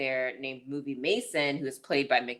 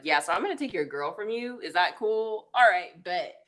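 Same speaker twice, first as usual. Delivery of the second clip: higher, smug taunting voice; cocky bully taunt; 4 semitones higher, 4 dB louder than usual. Retold or imitated. Bully Danny teasing Pete about his crush, smug and cocky. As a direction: lightly play a bully who's stealing the girl.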